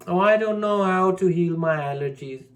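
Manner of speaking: high, loud whining complaint; mock helpless whine. Mimicking a student who won't heal allergies, loud high whine.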